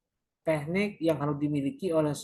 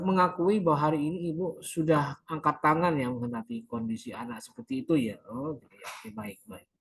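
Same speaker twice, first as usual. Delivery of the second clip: counselor summing up. Shown as a demonstration.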